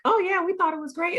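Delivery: high-pitched put-on approval; mock enthusiasm. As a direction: gush like you loved it, pretending. Imagined gushing verdict of the pair.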